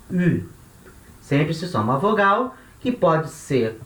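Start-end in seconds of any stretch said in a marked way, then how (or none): 0.1-0.4 "U" said as French u, lips rounded, tongue forward; rounded front "U". Shown as a demonstration. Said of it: "do U do francês".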